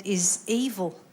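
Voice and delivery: mock South African accent. Shown as a demonstration. Comic comparing accents for the audience, mock South African accent. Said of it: "the South African accent".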